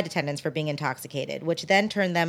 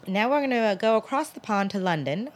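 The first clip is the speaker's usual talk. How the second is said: bad English accent; 3 semitones higher than usual. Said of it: "which was my bad English accent".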